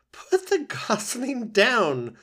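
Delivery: high, loud, slow laughing order; the goose teasing the worried robot; amused old goose. Acted. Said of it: "said the goose with a laugh".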